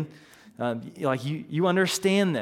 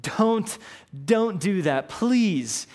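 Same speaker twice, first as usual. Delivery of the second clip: higher, begging servant voice; pleading servant; 4 semitones higher, slower than usual. Retold or imitated. Indebted servant begs the king not to jail him, pleading. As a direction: plead for mercy, lightly acted. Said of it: "the servant begs and he pleads".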